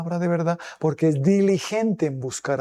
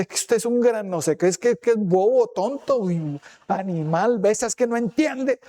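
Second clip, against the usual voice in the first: 1 mock insulting rant; 4 semitones higher than usual. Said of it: "No decirle".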